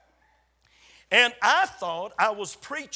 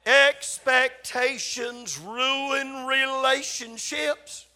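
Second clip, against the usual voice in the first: said very slowly, each word of "Expectations ruin relationships" laid out; slow deliberate reading; 3 semitones higher, much slower than usual. Shown as a demonstration. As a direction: read it out slowly, like dictating. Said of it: "Read it, please".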